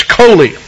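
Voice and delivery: coli said as KOH-lee, the Hebrew word. Shown as a demonstration. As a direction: coli spoken carefully like a Hebrew term. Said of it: "Same, same word that's translated griefs".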